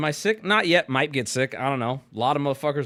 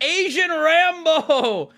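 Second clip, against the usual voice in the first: hammed-up action hero; 12 semitones higher, 5 dB louder, much slower than usual. Hyping himself up as a character.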